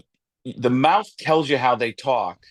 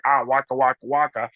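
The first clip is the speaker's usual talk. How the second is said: Fozzie Bear. Acted. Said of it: "and Fozzie Bear".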